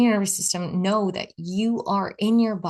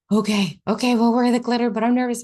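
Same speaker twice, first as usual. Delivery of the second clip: jittery inner voice; 5 semitones higher, 4 dB louder than usual. Retold or imitated. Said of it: "that part was like".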